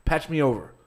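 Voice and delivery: hammed-up brash guy selling ideas; mock pushy caller. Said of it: "He's like".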